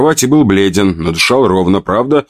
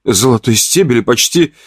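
surprised; 3 semitones higher than usual. Acted. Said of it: "удивилась женщина".

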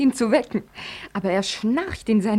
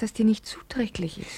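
whisper; 5 dB quieter than usual. Acted. Whispered aside.

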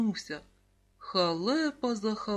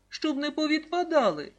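higher, louder playful punchline; amused; 6 semitones higher, 5 dB louder than usual. A narrator's reading. Mum jokes that numbers may fall off, amused. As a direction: tease with mild merriment, voice lifted. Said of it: "засміялася мама".

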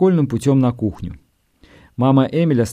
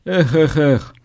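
moaning ghost; slower than usual. A narrator's reading. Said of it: "как безумно стонало это привидение".

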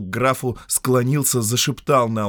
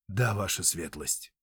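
submissive reply; 3 semitones lower, 8 dB quieter than usual. Acted. Steward answering obediently.

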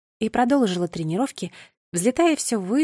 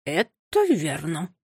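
lower, very slow agreeing coo; slow pigeon voice; 4 semitones lower, much slower than usual. Acted. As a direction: agree slowly and wisely. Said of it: "согласился первый". (медленный низкий голос голубя)

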